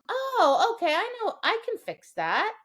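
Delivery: high eager dog voice; voicing the dog. Trainer voicing her dog realizing the fix, high and eager. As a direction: play the dog, bright with relief. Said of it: "Now the dog goes".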